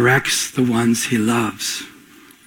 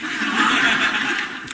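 soundless breathy laugh; a wheezing laugh at the absurd request; real laughter; 9 semitones higher, 4 dB quieter than usual. Real, not acted. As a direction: laugh it out silently, pitched up.

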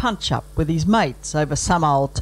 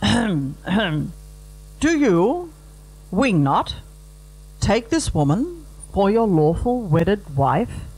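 parson; 3 semitones higher, slower than usual. Acted. Parson asks the wedding vow.

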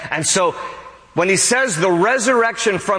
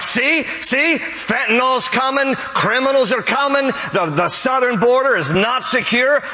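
higher, alarmed mock yell of See; mock alarmed shout; 5 semitones higher than usual. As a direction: ham up panicking politicians. Republicans mocked as alarmed.

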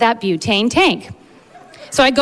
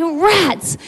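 higher, exclaimed "rats"; mock frustration; 5 semitones higher than usual. Doctor after forceps slip, mock frustrated. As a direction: let out a mild mock curse.

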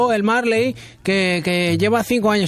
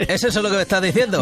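Torrente; faster than usual. Pretend. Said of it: "Va a ver, Torrente".

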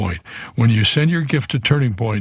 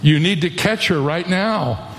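higher-pitched retold cry, only mildly raised; mock urgent cry; 5 semitones higher than usual. Preacher retelling a mother's roadside birth, mock urgent cry. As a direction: imitate an urgent cry without really shouting. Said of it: "Alice cried out".

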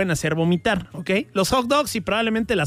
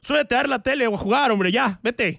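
mimicking mom. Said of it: "como la arremedas".

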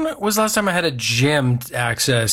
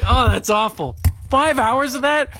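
straining, voice breaking up high; voice cracking; 8 semitones higher than usual. Real, not acted.

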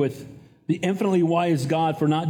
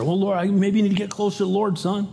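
wrong answer; 3 semitones higher than usual. Retold or imitated. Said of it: "I was giving him the wrong answer".

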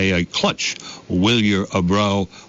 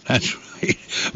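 whispered aside; 5 dB quieter than usual. Real, not acted. Aside after shocking score.

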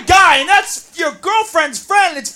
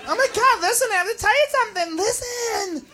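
tipsy confiding hush; 3 semitones higher, 7 dB quieter than usual. Acted. Drunk confiding.

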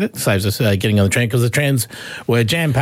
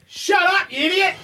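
angry stranger. Retold or imitated. Retold angry stranger yelling.

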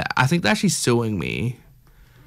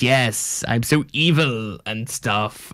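Palpatine; slower than usual. Acted. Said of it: "I don't even think this is Emperor Palpatine".

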